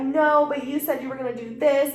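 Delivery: loud imitated accusation; retold yelling. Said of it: "are literally yelling at each other".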